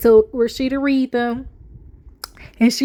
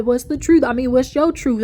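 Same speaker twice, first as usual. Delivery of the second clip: mocking Kirk. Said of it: "now when you sit there talking about".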